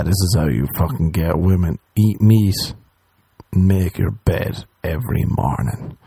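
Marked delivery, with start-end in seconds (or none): 2.0-6.0 slow preachy mock guru. Mocking Jordan Peterson's advice.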